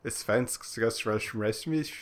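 made-up Swedish mouth noises; fake Swedish. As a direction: mumble mock-Swedish gibberish. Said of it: "That's not Swedish at all".

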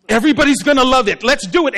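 loud, rushed burst of eagerness; mock gung-ho enthusiasm. One of us jumping out with an idea, excitedly. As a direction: pitch it fast and all fired up.

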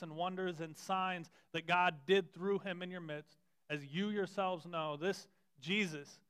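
measured reading of scripture aloud. Acted. Pastor reading Peter's sermon aloud to the congregation, steady and measured. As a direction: read the passage steadily to the church.

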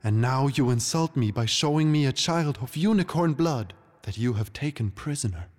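high, indignant outburst, slowing; angry queen. Acted. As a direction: hurl the accusations one by one. Queen rages at the intruding king.

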